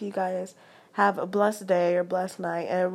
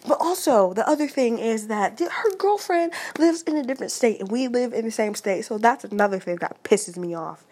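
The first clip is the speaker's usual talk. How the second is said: heated, higher and louder venting; angry; 3 semitones higher, 4 dB louder than usual. Real, not acted. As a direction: let the frustration burst out. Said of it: "I'm sorry about the anger".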